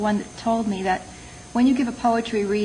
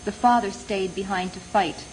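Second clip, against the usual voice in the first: measured poem recital with pauses between phrases; poetry reading. Acted. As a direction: read it as a poem, letting each line fall. Reads own poem aloud.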